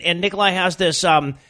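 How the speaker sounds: ordinary delivery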